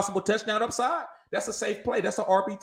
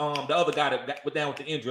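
groping for a name, brain freeze; stalling through a brain freeze; 5 semitones lower, 5 dB quieter, faster than usual. Real, not acted. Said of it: "I'm sorry, I got a brain freeze".

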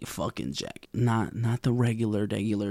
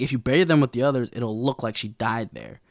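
fast, snide backhanded remark; a mildly angry, backhanded coach; sassy backhanded. Retold or imitated. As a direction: toss it off with a sneer. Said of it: "angry, backhanded comment, like, tone".

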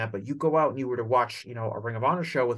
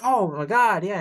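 excited crowd; 7 semitones higher, 5 dB louder than usual. Retold or imitated. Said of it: "people being like".

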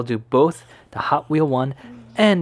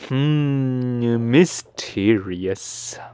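mysterious; much slower than usual. Acted. Puzzled desk worker.

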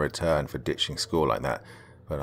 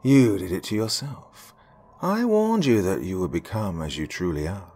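sinister pronouncement. Acted. Villain pronouncing her fate.

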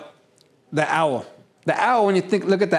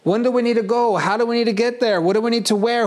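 higher, eager string of questions; mimicking a detail-hungry analytical type; curious detail seeker; 6 semitones higher than usual. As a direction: fire off questions like an anxious planner. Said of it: "They're like".

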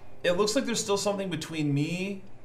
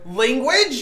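high, loud, laughing "Language?"; a scandalized goblin's prissy rebuke, laughing through it; mock prim scold; 9 semitones higher, 9 dB louder than usual. Player jokes goblin scolds cursing, mock prim. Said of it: "Probably like".

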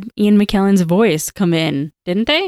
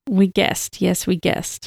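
tentative, softly voiced Gollum; half-hearted Gollum attempt; 4 dB quieter, slower than usual. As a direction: try Gollum's voice without managing it. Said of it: "I can't do the voice at all".

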